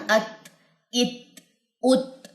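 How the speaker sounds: ات with breath released after the ت; breathy t demo. Shown as a demonstration. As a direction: let air flow after ات. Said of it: "ساکن کر کے پڑھیں". (ات میں سانس جاری، ہمس)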